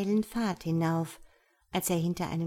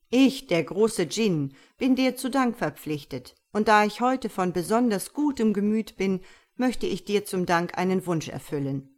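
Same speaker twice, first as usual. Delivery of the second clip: great djinn; 4 dB louder than usual. Acted. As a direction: speak as a mighty, gracious djinn. Dschinn voiced by narrator. (langsamer, lauter und erhabener Dschinn)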